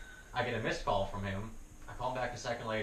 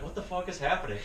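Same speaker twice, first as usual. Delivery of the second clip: angry; 7 semitones higher than usual. Retold or imitated. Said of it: "I'm getting angrier".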